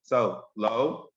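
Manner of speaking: one syllable at a time, clapped; sounding out syllables. Shown as a demonstration. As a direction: say it as a separate syllable beat. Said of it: "let's clap it out".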